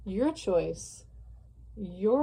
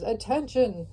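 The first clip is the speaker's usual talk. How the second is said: slow, drawn-out, louder announcement; mock loudspeaker call; 3 semitones higher, 4 dB louder, slower than usual. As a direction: call it out like a cult leader over a PA. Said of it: "yell over the loudspeakers".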